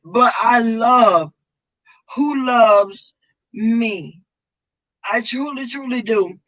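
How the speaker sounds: choked up, pushing the words out through tears; tearful thanks to the viewers; emotional. Real, not acted. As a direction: voice breaking on the words. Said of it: "excuse me for being emotional".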